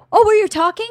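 put-on high-pitched innocent kid voice; oblivious child. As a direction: mimic a clueless child.

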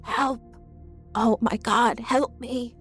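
high, breathy cries for help; terrified. A narrator's reading. Mother caught in a night terror, panicked cries.

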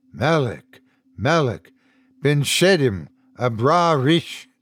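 measured, repeated foreign chant; recited mantra. A narrator's reading. Unseen man reciting in the tower, lightly chanted mantra. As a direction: recite it like a mantra, in even phrases. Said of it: "reciting some mantra in a language other than English".

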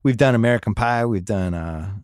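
upbeat podcast sponsor read; brisk promo voice. Acted. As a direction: sell it like a host-read ad. Host reads Luminary sponsor ad.

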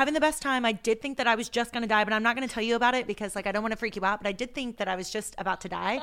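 rapid, happy run-on babble; fast-talking, energetic. Retold or imitated. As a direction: rattle it off without stopping. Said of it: "so fast talking and energetic".

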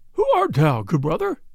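put-on thin, high old friar voice; high wheezing old man. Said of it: "in a high, wheezing voice".

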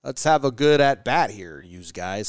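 lightly imitated umpire; a hint of an umpire's patter, falling away; Phil Cuzzy. Host imitating umpire talking to batters, lightly put-on umpire voice. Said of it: "That's how he talks".

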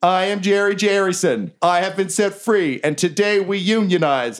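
high-pitched goblin orator; rousing speech. Acted. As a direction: proclaim it high to the masses. Jerry gives goblins a rousing speech.

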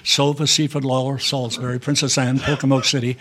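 rapid-fire list of stops, announcer cadence; bus station announcer. Shown as a demonstration. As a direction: call the departures like a Greyhound dispatcher. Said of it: "I've heard you do the bus reads".

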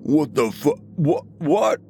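high, startled stammer; panicked. A narrator's reading. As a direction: blurt it out in sudden panic. Tied down suddenly, panicking.

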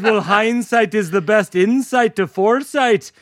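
amateur Irish lilt; lightly put-on Irish brogue; awful Irish accent. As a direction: offer wisdom in a bad Irish accent. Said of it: "for my awful accent".

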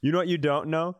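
usual speaking voice

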